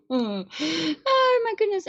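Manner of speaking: high, slow whimpering wail; high drawn-out oh my goodness; slow dismayed wail. Real, not acted. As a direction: drag it out in dismay. Reacting to a hectic filter.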